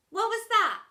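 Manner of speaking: high, loud startled demand; spooked demand. Acted. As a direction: blurt it out, spooked. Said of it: "she demanded, seriously spooked".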